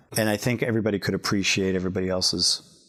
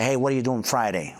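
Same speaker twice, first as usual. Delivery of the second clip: casual invitation in a lightly voiced regular-guy character; lightly put-on down-to-earth guy; Louis the Gizmo; 3 semitones higher than usual. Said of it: "Louis would say".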